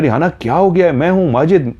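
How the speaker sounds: acted alarm, trying to get through to her; worried urgency. Worried husband reviving his frightened wife. (घबराकर पूछते हुए)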